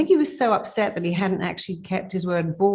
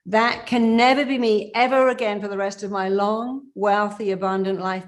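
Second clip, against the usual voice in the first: emphatic affirmation; 3 semitones higher, 3 dB louder than usual. Shown as a demonstration. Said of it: "Give it everything you've got".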